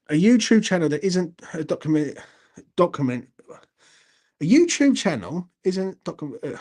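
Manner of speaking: stumbling and restarting mid-sentence; tripping over words. Real, not acted. YouTuber fluffing a line about his channel, tripping over words. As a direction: struggle to get the words out. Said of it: "get me words out".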